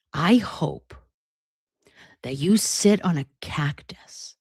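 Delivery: a poisoned wish, whispered; venomous whisper. Real, not acted. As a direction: hiss it under your breath.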